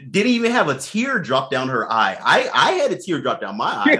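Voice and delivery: laughing so hard it brings tears; after laughing hard. Real, not acted. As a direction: talk through the tail of a laugh. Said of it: "I'm crying right now".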